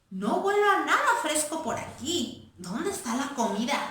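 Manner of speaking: high, quick little mouse sniffing around; squeaky boy mouse. Acted. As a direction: play the hungry boy mouse.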